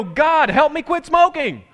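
loud, high, drawn-out mock plea; exaggerated prayer. Preacher mocking smoker praying after buying cigarettes, loud wailed plea. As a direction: cry out to God, stretching the words. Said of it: "and go".

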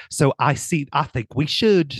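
hammed-up, badly faked English accent. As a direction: put on a terrible mock-British accent. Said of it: "That was a terrible accent".

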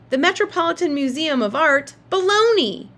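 loud, high disbelief; exclaiming. A narrator's reading. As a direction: burst out in disbelief. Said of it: "he exclaimed".

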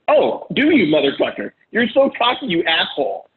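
wife mocking her husband for being cocky; mock angry retort. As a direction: throw it back sarcastically like an offended wife. Imitating wife's angry retort.

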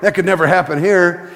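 lightly voiced dismissive listener; a hint of smug disbelief; mock listener. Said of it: "that's the preacher's story".

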